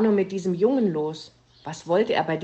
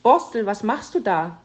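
calling up; 3 semitones higher, 5 dB louder than usual. Acted. Mother calling up to attic.

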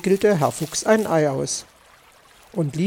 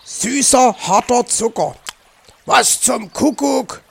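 higher, disgusted disbelief; indignant dismay; 6 semitones higher, 3 dB louder than usual. Acted. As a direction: exclaim over a nasty surprise. Fox discovers sugar, spits it out. (entrüstet und angewidert, höher)

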